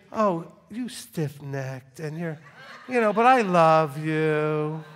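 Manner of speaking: drawn-out, syrupy mock scolding; slow, hammed-up loving reproach; mock tenderness. What the congregation pictures God saying, mock tender. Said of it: "but, oh, but you're all picturing".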